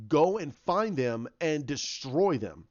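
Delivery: slow, deliberate command with a mild menace; lightly acted dark lord giving orders; retold villain's order. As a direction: lay down the order word by word, slowly.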